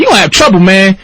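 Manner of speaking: imitated street warning; gangster. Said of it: "This is gangsta outside".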